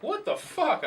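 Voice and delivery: high loud stunned outburst; shocked. Retold or imitated. Bleeding on the curb, seeing the blood, a high loud stunned cry. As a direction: react to the blood in sudden shock. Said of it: "And I'm like".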